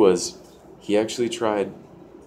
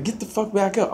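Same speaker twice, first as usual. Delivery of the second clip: high, strained command; re-enacted angry order; 13 semitones higher than usual. Fighter standing over man on the ground, re-enacted angry order. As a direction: act out ordering a downed opponent up.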